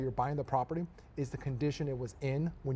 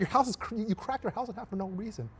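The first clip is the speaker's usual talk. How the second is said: retold anger; 6 semitones higher than usual. Telling host how he refused the cracked house, exasperated. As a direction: scold them like fools who wrecked a house.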